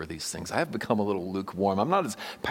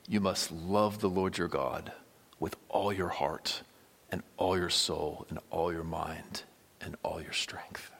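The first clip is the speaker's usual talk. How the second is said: hushed quote; 2 semitones lower, 5 dB quieter than usual. Pretend. Quoting the great commandment softly.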